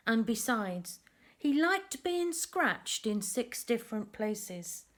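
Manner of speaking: lively storybook narration for little ones; reading to children. A narrator's reading. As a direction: tell the tale to a group of kids. Reads picture book to children.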